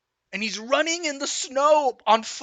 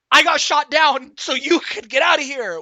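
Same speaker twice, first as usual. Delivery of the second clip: upset Rooster; 6 semitones higher, 8 dB louder than usual. Retold or imitated. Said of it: "He's like".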